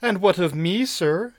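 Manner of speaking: high, lightly voiced heroine; pleading woman. A narrator's reading. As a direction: ask anxiously after your fate. Woman character asks the hero her fate.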